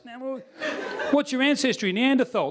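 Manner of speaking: high, pestering Aussie questioner; nosy Australian. Retold or imitated. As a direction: imitate an insistent Australian.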